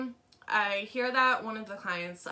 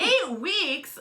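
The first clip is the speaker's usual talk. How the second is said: high indignant disbelief, louder; mock outrage; 10 semitones higher, 6 dB louder than usual. Client at the front desk, loudly indignant disbelief. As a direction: echo the number back in shock. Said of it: "she looks at me and she's like".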